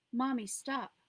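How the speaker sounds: high, loud pleading cry; a terrified child begging her mother to stop; desperate begging. A narrator's reading. Little girl begs her mother to stop, desperate loud plea. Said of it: "Millie begged".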